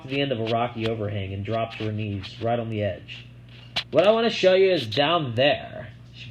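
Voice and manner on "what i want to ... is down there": put-on girl character voice. A narrator's reading. Sissy voiced.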